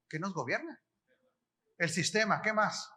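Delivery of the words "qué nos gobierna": "¿Qué nos gobierna?" repeated much softer, rising on "gobierna"; preacher quietly repeating his question. Shown as a demonstration. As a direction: drop the volume and ask it again, inviting an answer. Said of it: "¿Pero qué?".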